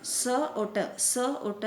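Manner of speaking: "स" and "ट" as short separate sounds; half sounds. Shown as a demonstration. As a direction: sound out "स और ट" letter by letter. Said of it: "यानी half half है दोनों".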